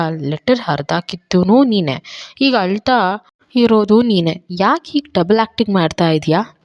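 baffled disbelief at her act; astonished. Acted. Sharath questions Lavanya's crying act, astonished. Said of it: "ಆಶ್ಚರ್ಯದಿಂದ".

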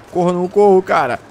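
loud, high panicked question; panicked shout. Real, not acted. Panicking over a chasing wolf.

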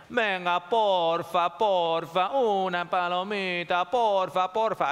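lightly voiced begging brain; wheedling plea. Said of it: "Así habla el sistema límbico".

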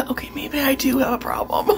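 giggling whisper; whispered laughing confession. Real, not acted. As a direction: laugh it out under breath. Admitting collection problem.

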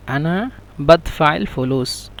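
আনা বাদফাইল ফুলুস said slowly, each word held apart; slow repeat. Shown as a demonstration. Teacher repeating the dialect sentence for students, slow and careful. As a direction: spell out বাদফাইল slowly for the class.

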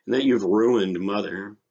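animated short-story reading with voiced dialogue; story narration. A narrator's reading. Teacher reads a story to students, expressive narration. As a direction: read it out expressively, acting the dialogue lightly.

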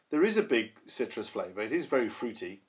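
words spoken into the glass, slightly muffled; talking into a glass. Real, not acted. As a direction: say it into the beer glass, hollow. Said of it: "he says, talking into the glass".

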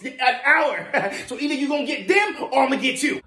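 high-pitched, exasperated complaint; high, fed-up clerk; strained politeness. Acted. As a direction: complain in a high, put-upon voice. Clerk complains about customer's kids.

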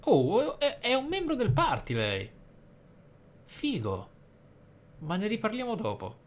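ordinary talk

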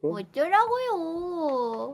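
slow, whiny 'so what' taunt; drawn-out sassy whine. Acted. Repeats retort more sassily.

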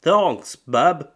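mock the couple's baby talk; hammed-up ditzy coo.

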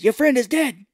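high, loud blurted announcement; hammed-up old-mother holler; Mama's mock yell. Imitating Mama after slapping her son, mock yell. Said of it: "his mama's like".

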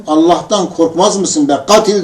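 mildly heated retelling of an indignant challenge; retold indignant reproach; angry rebuke. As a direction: rebuke him, indignant but held in. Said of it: "bu sözlerinden dolayı çok sinirlendim".

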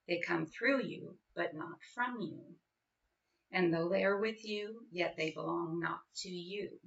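measured, deliberate recitation with pauses; poem reading. Acted. Parent reading Gibran to other parents, measured recital.

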